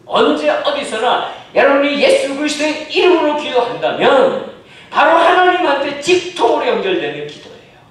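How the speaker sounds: loud, bright exhortation; forceful preaching. Acted. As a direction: assure them with force. Rising exhortation. (힘있게 권면하는 설교)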